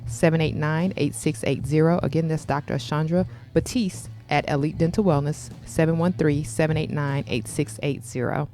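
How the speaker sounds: polished sponsor announcement voice; sponsor ad read. Acted. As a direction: sell the dental practice like a radio spot.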